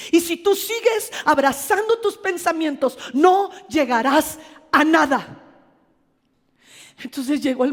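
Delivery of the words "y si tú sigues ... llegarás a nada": stern divine warning. Retold or imitated. God warns the pastor she will go nowhere, stern loud voice. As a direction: lay down the warning with weight. God's warning in her testimony.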